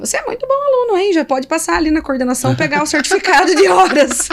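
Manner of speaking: high teasing praise of a good student; mock teacher praise. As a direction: play the proud teacher, teasing. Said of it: "joking praise to colleague". (elogio brincalhão de professora)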